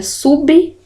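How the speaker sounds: sublinhar broken into sub, li, nhar; syllable by syllable. Shown as a demonstration. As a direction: pause between each piece of sublinhar. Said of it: "o correto seria".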